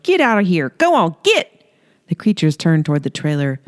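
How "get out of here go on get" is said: higher, shooing yell. Acted. Holly yelling at the fishmen out the window. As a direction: shoo them off the lawn. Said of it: "leaned out ... and yelled".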